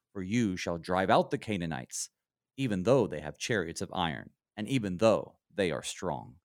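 measured, even bible reading; scripture reading. Acted. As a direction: read it out like a lesson passage. Reads the scripture passage aloud.

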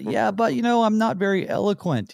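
high, pleading Moses voice; mock whiny Moses. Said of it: "he tells God".

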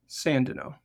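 Sandino said as SAN-dih-no; stress on first syllable. Real, not acted. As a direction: say Sandino with a short, unstressed middle vowel. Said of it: "Is it Sandino or Sandino".

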